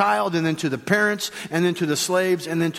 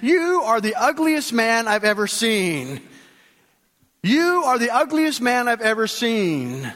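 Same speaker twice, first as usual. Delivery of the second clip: high, drawn-out parrot taunt; lightly voiced parrot, pitched up and stretched; a slow, high insult from a parrot; mimicking parrot; 5 semitones higher than usual. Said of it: "the parrot said to the man".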